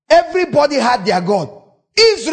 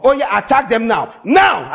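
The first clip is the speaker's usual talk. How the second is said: goading shout. Retold or imitated. Gods stirring enemies to attack.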